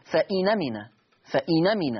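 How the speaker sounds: فإن أمن with the nun opened into the next word, فإنَ مِن; naql. Shown as a demonstration. Teacher shows naql in فإن أمن, carefully linked. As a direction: join فإن أمن with no hamza. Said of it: "فتصير".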